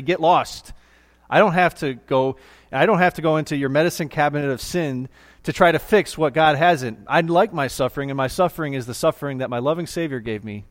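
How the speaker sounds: defiant. Retold or imitated. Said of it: "stand up to Satan at your doorstep and say".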